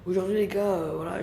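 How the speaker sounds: talking softly so nobody wakes; hushed voice. Real, not acted. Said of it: "je peux pas parler fort".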